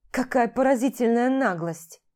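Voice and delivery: громкое возмущённое восклицание; выплесни негодование вслух; возмущение. Acted. Возмущение при виде любовницы. (возмущённо, громче обычного)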